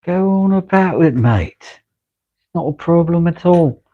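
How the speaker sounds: high, cheeky put-on British accent, mate; playful British bloke accent; mock British accent. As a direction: toss it off in a hammed-up British accent. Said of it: "Your accent's absolutely stunning".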